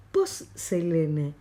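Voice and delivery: Poselene stretched slowly with a held s; slow model word. Shown as a demonstration. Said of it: "Hagamos de cuenta que los estoy escuchando". (Poselene lento, con la s alargada)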